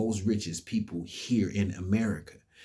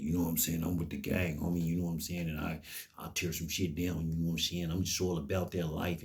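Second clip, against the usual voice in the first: mock gang talk; 4 dB quieter than usual. Mocking a gang member's boast.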